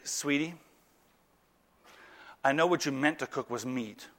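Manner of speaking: soft, low and tender; gentle rebuke. Acted. Husband gently correcting his sweetie, soft and low.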